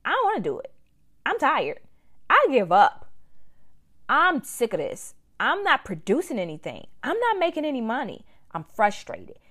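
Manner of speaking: high, loud fed-up complaining; frustrated whining. Retold or imitated. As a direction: voice a worn-out, discouraged entrepreneur. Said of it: "in those times that you like".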